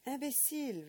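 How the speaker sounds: high, loud breathless French insult. Acted. Old man out of breath from shaking the boy. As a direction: gasp it out in fury. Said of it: "repeated Monsieur Hubert, now breathless".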